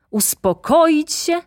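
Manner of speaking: high, loud, slow indignant shout; furious outburst. A narrator's reading. Director shouting at Maruszewicz, furious indignant outburst. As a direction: explode with outrage. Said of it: "krzyknął dyrektor, czerwieniejąc z gniewu".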